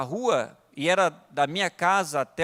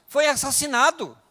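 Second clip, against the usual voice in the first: raised, insistent sermon delivery; earnest preaching with punched key words; emphatic preaching; 4 semitones higher, 4 dB louder than usual. Real, not acted. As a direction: press the point on the congregation. Preaches with rising force.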